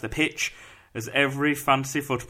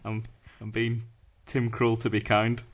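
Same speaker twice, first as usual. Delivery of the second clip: put-on Dutch accent, a bit lower; 3 semitones lower than usual. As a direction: keep up the mock Dutch accent. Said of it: "my Dutch accent".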